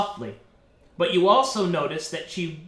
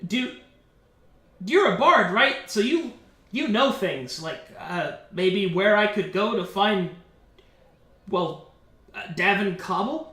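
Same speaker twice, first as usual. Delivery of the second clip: put-on hesitant, fumbling young questioner; lightly voiced awkward Clyde; 2 semitones higher than usual. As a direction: stumble through the question, unsure of yourself. Game master voices awkward Clyde asking.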